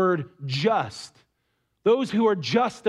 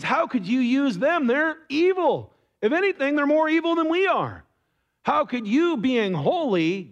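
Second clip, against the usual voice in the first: a lightly voiced Habakkuk, higher and pleading; protesting prophet; 4 semitones higher than usual. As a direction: argue with God like a baffled prophet. Habakkuk protesting to God, retold.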